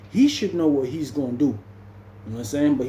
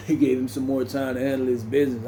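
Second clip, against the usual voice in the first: laughing repeat. Real, not acted.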